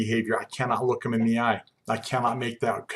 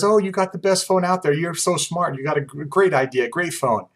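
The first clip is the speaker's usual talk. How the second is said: lightly voiced gushing sales pitch, higher; butter up the customer in a raised voice; imitated saleswoman's flattery; flattering saleswoman; 5 semitones higher than usual. Acting flattering young saleswoman to customer.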